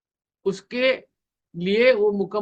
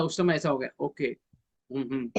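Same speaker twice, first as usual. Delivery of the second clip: attentive listener; 4 semitones lower, 6 dB quieter than usual. Shown as a demonstration. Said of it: "तो आपको बोलना".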